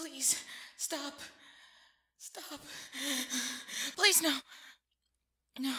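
high, loud desperate scream of please. Acted. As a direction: yell at them to stop, voice cracking high. Screaming plea to attacker.

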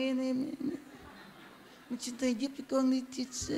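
very soft, indistinct mumble; imitating tiny weak voice. Mimicking a drained man asking the teacher for help, tiny mumbled voice. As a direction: let the words fade into a feeble murmur. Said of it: "nó lớn mình nói gì nó xíu xíu".

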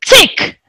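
short, high tick; clock tick. Shown as a demonstration. Teacher demonstrates the sound of a clock, ticking. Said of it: "what does the sound of a clock?".

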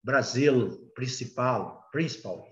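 "Brasil" and "principal" ending on an English L; tongue up on the last L of "Brasil" and "principal"; English-style L closing "Brasil" and "principal", not a U; English final L. Shown as a demonstration. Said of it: "O inglês, no final da palavra".

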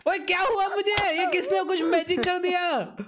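high-pitched bewildered outcry; startled alarm. Real, not acted. Player hit by unseen magic, startled high outcry. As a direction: cry out, baffled by the sudden hit. Suddenly hurt by unseen attacker.

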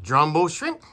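complaining customer in a mock Chinese accent. Customer complaining about small shrimp, in a Chinese accent. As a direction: grumble through a put-on Chinese accent. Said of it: "we're gonna do a Chinese accent".

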